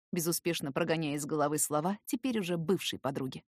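usual speaking voice

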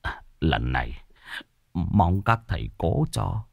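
soft, fearful pleading; trembling plea. Acted. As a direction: beg quietly, voice shaking a little. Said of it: "Ông Trọng run run". (giọng run run van nài, nhỏ hẳn đi)

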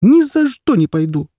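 put-on high, loud tearful child's protest; boy crying to his mother that he won't go back. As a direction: wail it through tears like a boy of seven. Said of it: "заплакал он вновь".

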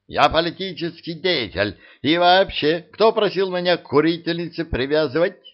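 high, outraged protest; indignant protest. A narrator's reading. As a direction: bristle with wounded dignity. (возмущённо, с обидой)

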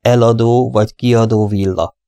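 slow and clearly spaced words; slowly, clearly. Acted. Poirot explaining the villa to the receptionist, slowly and clearly. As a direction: spell it out word by word. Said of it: "magyarázta lassan, tagoltan".

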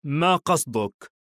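slow, drawn-out mild sarcasm; slow question with a touch of scorn; sarcastic displeasure. A narrator's reading. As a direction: stretch it out, mildly put out. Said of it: "خادر بتهكم واستياء".

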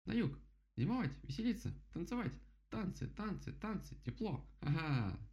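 высокий тараторящий птичий голос; перечисляй высоко, с суетливыми повторами; восторженный дятел. Acted. Голос дятла. (восторженно, голосом дятла)

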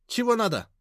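high, rude woman's question; curt high-pitched challenge; sharp demand. A narrator's reading. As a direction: push him away with it. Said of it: "резко спросила она".

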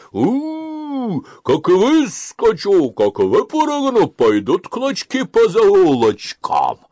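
high, loud menacing howl of a wolf. Acted. Fox fakes a wolf's voice behind the wall, loud and menacing. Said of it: "голосом волчьим".

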